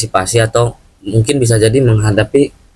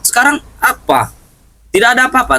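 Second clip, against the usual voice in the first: complaining Bung Laga; 10 semitones higher than usual. Acted. Voicing Bung Laga's complaint.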